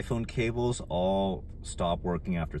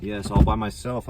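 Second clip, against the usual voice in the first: proud cheer; 3 semitones higher, 8 dB louder than usual. Real, not acted. Proud of fixing the car.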